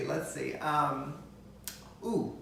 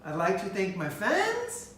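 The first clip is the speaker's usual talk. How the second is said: Mommy Dearest; slower than usual. Acted. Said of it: "Mommy Dearest".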